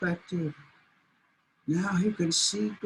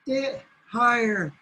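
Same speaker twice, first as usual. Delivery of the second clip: a touch higher, coaxing and slow; teasing bluebirds; 3 semitones higher, 4 dB louder, slower than usual. Acted. Bluebirds goad the blind coyote, slow and coaxing. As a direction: egg him on slyly. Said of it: "And they said".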